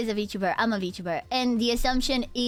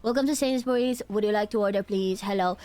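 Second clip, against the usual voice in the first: shop worker voice; 3 semitones lower than usual. Shown as a demonstration. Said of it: "this is genuinely how I just speak at Sainsbury's".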